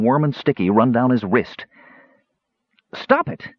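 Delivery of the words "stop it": very high, thin desperate squeal; small character's frantic yelp; frantic cry. A narrator's reading. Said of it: "he cried frantically".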